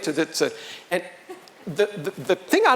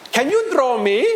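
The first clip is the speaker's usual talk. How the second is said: higher-pitched, rising soldier's request; imitated soldier; 5 semitones higher, 3 dB louder than usual. Soldier asking the artist for a portrait, eager rise. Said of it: "He goes".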